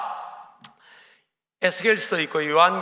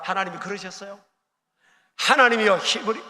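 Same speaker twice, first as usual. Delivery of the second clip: ordinary delivery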